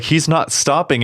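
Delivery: high-pitched stunned disbelief; pure shock. Retold or imitated. Podcaster mimicking a co-host's stunned reaction, in shock. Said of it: "like, pure shock".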